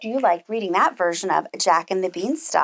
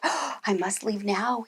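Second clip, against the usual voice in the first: scared whisper; 7 dB quieter, slower than usual. Acted. Jack trembling, thinking.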